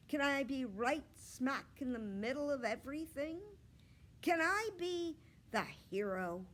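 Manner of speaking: a hint of a bold little girl asking for the spotlight; eager girl Gooney Bird. Gooney Bird asking the teacher to be the hero, eager.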